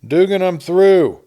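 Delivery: loud, high, slowed and elated; joyful shout. Acted. Holiday telling Dugan he is rich, shouting happily. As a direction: call out the big news with pure joy.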